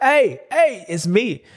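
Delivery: high mock call to a rival. Racer telling rival it's him, high mock call. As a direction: wave him down in a squeaky voice.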